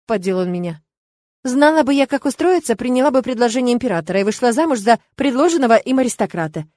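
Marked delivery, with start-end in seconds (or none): none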